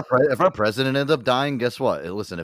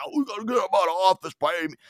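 mock maga supporter; 10 semitones higher, much faster than usual. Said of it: "I'm not one of those fucking maga supporters".

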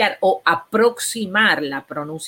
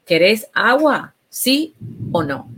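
"agua" drawn out slowly and clearly, a little higher; clear slow question; 4 semitones higher, slower than usual. Shown as a demonstration. Therapist modelling for a child, slow and clear. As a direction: ask "¿Querés agua?" slowly, stretching "agua". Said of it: "Y siempre con respuestas, em, claras".

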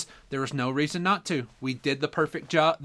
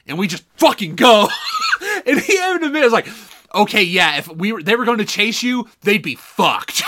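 laughing it out, real amusement; 4 semitones higher, 4 dB louder than usual. Real, not acted. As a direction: talk through laughter. Laughing while retelling.

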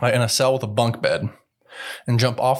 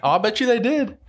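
laughing; 13 semitones higher than usual. Real, not acted. Laughing at the merger joke.

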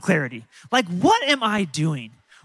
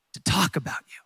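whisper; 3 semitones lower, 6 dB quieter than usual. Real, not acted. Pastor whispers the closing point.

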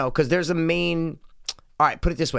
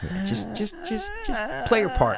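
high put-on voice; 8 semitones higher than usual.

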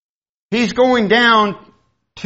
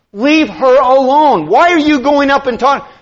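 mock rebuke; 7 semitones higher, 4 dB louder than usual. Preacher rebuking the devil for tempting Eve, louder. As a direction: scold the devil for bothering Eve.

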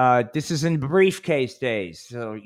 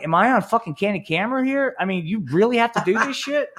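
incredulous; 8 semitones higher than usual. Retold or imitated. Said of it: "I'm like".

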